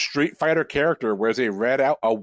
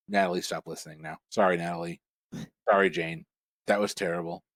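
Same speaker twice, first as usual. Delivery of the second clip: put-on Australian accent; 6 semitones lower, 4 dB quieter, faster than usual. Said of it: "Is that an attempt at an Australian accent".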